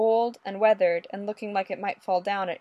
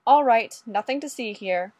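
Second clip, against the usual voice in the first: beat cop voice; 2 semitones higher, 4 dB louder than usual. Acted. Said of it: "in his best beat cop voice".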